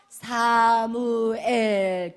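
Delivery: 사무엘 stretched very slowly; drawn-out name. Real, not acted. Preacher revealing the son's name 사무엘, drawn out.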